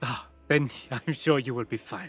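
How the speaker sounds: dry, sarcastic, mocking tone. A game character answers a companion before jumping in the boat, sarcastic. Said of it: "she says sarcastically".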